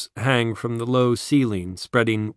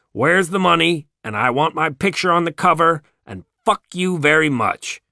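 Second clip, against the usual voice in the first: mocking greed; 5 semitones higher than usual. Mocking greedy people's demands.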